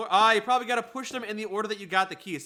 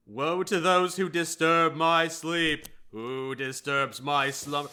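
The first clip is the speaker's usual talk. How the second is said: sleepy snoring dragon; 2 semitones lower, slower than usual. Pretend. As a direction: boom it out like a woken beast. Voicing the awakened statue guardian.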